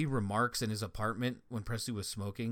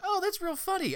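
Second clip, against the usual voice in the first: sarcastic. Retold or imitated. Sarcastic reply to insulting neighbor.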